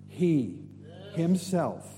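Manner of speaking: "He", pause, "himself", each word set apart; stress on himself. Real, not acted. Preacher correcting who comes for church, "himself" firmly stressed.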